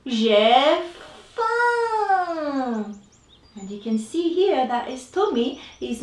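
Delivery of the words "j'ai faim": a touch of a whiny hungry rabbit; lightly voiced rabbit complaining; hungry bunny. Hungry rabbit tells reader his tummy's empty, mild whine. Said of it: "so he says".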